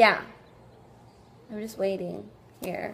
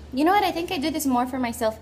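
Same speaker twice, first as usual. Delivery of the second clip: defiant; 4 semitones higher, 5 dB louder, faster than usual. Real, not acted. Sudden defiant turn.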